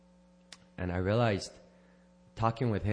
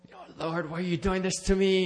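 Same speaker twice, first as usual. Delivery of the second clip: mock lament to God; 9 semitones higher than usual. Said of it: "next day I'd be like".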